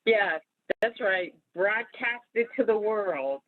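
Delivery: mock approval, dragging out the last phrase; sarcastic. Real, not acted. Host to co-host who is announcing their coming birthday, sarcastic.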